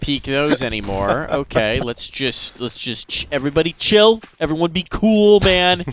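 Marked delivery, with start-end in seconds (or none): 3.3-5.8 mock calm-down. Mock calming the players.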